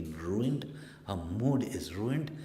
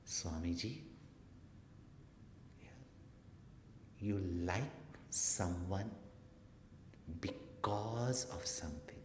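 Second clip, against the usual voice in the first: coy; 7 dB quieter than usual. Retold or imitated. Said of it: "with such, hmm, coy".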